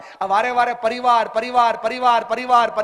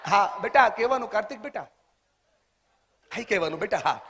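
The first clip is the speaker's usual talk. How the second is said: gentle teasing; 4 dB quieter than usual. Real, not acted. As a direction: softly nudge him to stay awake. Teasing a sleepy audience member.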